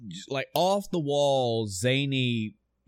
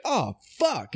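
pained Dante; 9 semitones higher than usual. Retold or imitated. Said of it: "He's like".

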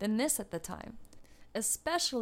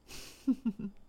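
short chuckle. Real, not acted. Narrator amused by her teenager comparison, brief chuckle. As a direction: chuckle briefly at your own jibe.

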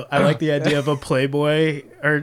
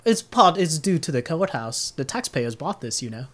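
halfling clerk, helpful. Acted. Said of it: "He says".

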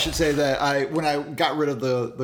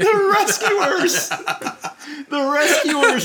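high-pitched laughing repeat; 12 semitones higher, 6 dB louder, much slower than usual. Retold or imitated. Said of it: "he says".

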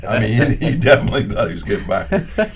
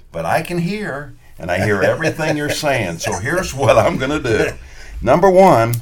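stern warning; 4 semitones higher, 4 dB louder than usual. Retold or imitated. Referee warns a courtside heckler, acting out a stern warning. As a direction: lay down the law, point by point.

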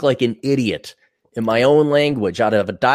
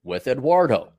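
flat American; 3 semitones higher, slower than usual. Shown as a demonstration. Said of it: "this is how a real American says it".

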